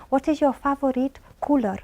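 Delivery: slowed down with every word separate; slow careful question. Shown as a demonstration. Examiner slowing down for a young boy, careful and slow. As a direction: spell it out slowly for a seven-year-old. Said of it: "sometimes I have to say".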